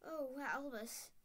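lightly voiced stern witch in shock; McGonagall upset. A narrator's reading.

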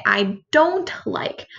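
"I don't like" said very slowly, each word drawn out; slow emphatic. Shown as a demonstration. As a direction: spell out "I don't like" slowly for the class. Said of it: "we're gonna say".

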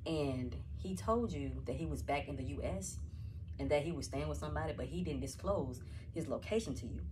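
slow, deliberate accusing tone; slow accusation. Acted. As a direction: lay out each charge slowly.

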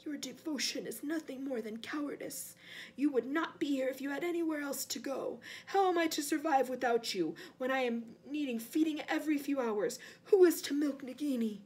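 cold, bitter rebuke; understated villainous contempt; scornful master. Acted. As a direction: cut down the servant's excuses. Cold master berates servant.

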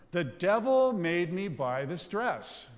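mildly voiced, slow Geraldine line; a light nod to Flip Wilson's Geraldine, drawn out slowly; Geraldine's catchphrase. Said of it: "And Geraldine's voice would come out".

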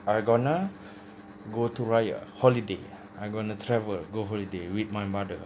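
talking around cigarette; cigarette in mouth. Real, not acted. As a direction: lips holding cigarette. Seen 3: unlit cigarette held between lips throughout labelled words.

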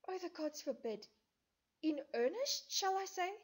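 put-on high, loud, stricken young woman; distressed Hermia. Hermia pleading with Lysander, high and stricken. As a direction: cry out in hurt disbelief.

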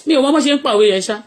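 ordinary talk

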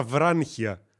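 βράνχια with an n sound before the χ; dialect pronunciation. Shown as a demonstration. Streamer telling viewers how they would spell it, dialect pronunciation. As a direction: say βράνχια with a nasal n slipped in before χ. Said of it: "Γιατί έτσι προφέρεται το γουχού".

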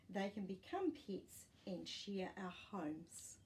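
put-on lively read-aloud voice for kids; gentle picture-book reading; reading to children. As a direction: read the page to little listeners.

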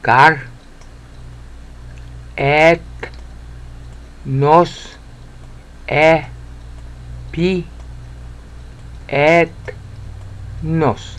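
Gar et nos e pi et nos, each syllable apart; slow Greek syllable drill. Shown as a demonstration. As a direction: spell out the Greek by sound. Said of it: "teacher sounding out Greek".

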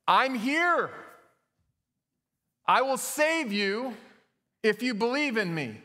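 high, drawn-out booming call. Acted. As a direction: play a booming voice calling down from on high. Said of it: "a booming voice spoke up".

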